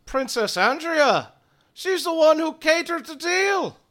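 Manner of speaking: high loud gruff warrior; gruff Karnak. Acted. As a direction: snarl it like a vengeful lord. GM voices Karnak.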